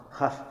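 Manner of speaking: "خف" with a short a, khaf; "خف" pronounced khaf, short open vowel; correct vowel. Shown as a demonstration. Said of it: "تقول لم يخف".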